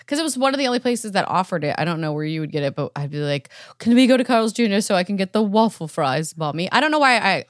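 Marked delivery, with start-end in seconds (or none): 3.8-6.7 put-on light British-accented child's plea; accidental British accent. Recalling begging Mommy for waffle fries, slight British accent. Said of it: "I didn't have a British accent".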